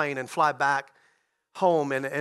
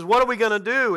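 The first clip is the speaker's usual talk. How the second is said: mild mock scream, raised pitch and a bit of push; retold panicked scream; 4 semitones higher, 4 dB louder than usual. Partner in the back of the pilotless plane, mildly mimicked scream. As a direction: imitate a partner's panicked cry, held back. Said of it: "began to scream".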